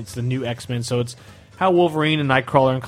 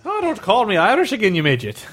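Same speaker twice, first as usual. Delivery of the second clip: mock Banshee; 7 semitones higher, 3 dB louder than usual. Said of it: "was that accurate?".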